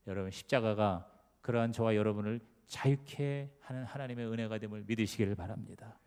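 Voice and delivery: normal talking voice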